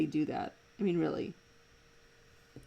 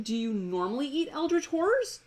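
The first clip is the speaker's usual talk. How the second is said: wry quip; 7 semitones higher, 5 dB louder than usual. Retold or imitated. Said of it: "And Kelsier said".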